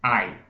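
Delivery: "Ai" with a strong "a" gliding into a weak "i"; diphthong ai. Shown as a demonstration. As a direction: glide from the "a" into a light "i". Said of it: "tá vendo?". ("Ai" com o "a" forte)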